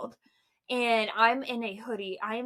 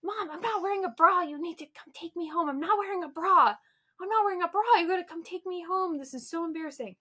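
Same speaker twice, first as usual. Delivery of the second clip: near tears; 6 semitones higher, faster than usual. Retold or imitated. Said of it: "on the verge of tears".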